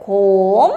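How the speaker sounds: "kom" held long and low; pronunciación modelo. Shown as a demonstration. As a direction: model "kom" as one drawn-out syllable. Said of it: "La segunda sílaba se lee". ("kom" alargado, en tono grave)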